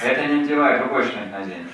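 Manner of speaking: loud commanding order; drill sergeant. Retold or imitated. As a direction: bark it like a sergeant. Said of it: "like a drill sergeant in the army".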